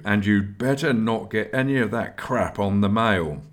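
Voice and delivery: a mild warning tone; understated warning to the aspirant. Acted. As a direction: caution him, lightly stern. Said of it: "he added warningly".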